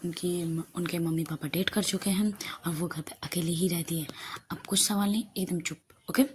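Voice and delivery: softly, in a low-key undertone; hushed confiding. Acted. Aana quietly tells her friend about ma'am's parents, hushed confiding. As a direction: share a secret under your breath. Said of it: "धीरे से ही आहना बोलती".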